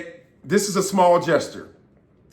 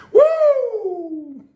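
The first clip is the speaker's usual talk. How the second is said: hype yell; 4 dB louder than usual. Retold or imitated. Hyping Arrowhead tailgate.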